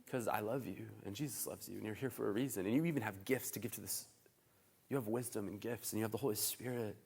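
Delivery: soft, sincere encouragement; quiet and heartfelt; tender reassurance. Acted. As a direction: gently assure someone they matter. Tender answer to self-doubting quiet person.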